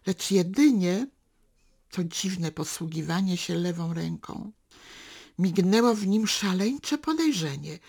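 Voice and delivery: measured literary reading, unhurried; story narration. A narrator's reading. Reader narrating a daughter and father's walk, calm storytelling. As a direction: read the novel excerpt to listeners. Reads a novel excerpt aloud.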